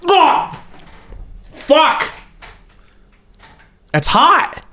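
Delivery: yelping after a burning sip; high pained yelps from a burned tongue; scalded mouth. Real, not acted. Burned tongue on hot tea.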